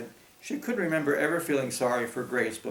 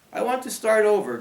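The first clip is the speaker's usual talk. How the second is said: croaking voice; 8 semitones higher, 7 dB louder than usual. Acted. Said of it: "Grace croaked".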